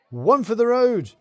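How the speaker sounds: fateful toast. A narrator's reading. The fateful words quoted.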